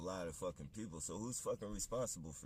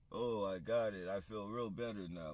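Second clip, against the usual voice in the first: mock-cheerful, louder sarcastic claim he feels better; sarcastic Trump; 3 semitones higher, 5 dB louder than usual. Ranter mimics Trump saying he took it, loud and sarcastic. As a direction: ham up a fake "all better" line, dripping irony. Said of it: "that's sarcastic as fuck".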